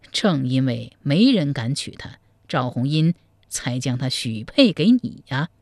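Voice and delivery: a sly monk confiding gossip; old monk. Acted. Monk tells the groom about the bride, low and measured.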